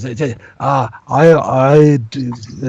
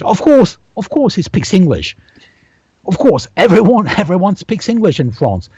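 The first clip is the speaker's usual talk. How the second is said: higher, mock-smug Frenchman insisting everyone speaks English; mocking French reply; 7 semitones higher than usual. To an English speaker, mock-arrogant French reply. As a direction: lightly send up a haughty French guy. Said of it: "you say".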